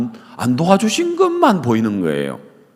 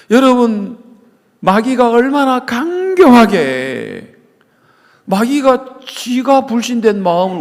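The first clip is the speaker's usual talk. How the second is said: much higher, louder and slow; fervent preaching peak; preaching shout; 11 semitones higher, 5 dB louder than usual. Real, not acted. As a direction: cry it out to the congregation. Preacher crying out.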